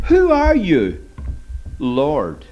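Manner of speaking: Saul thrown to the ground, calling out in alarm; startled question. Shown as a demonstration. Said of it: "You remember what he said first of all?".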